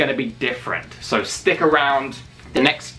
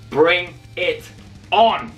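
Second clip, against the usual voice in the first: building shout; 4 semitones higher, slower than usual. Shown as a demonstration. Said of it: "Give me your best promo".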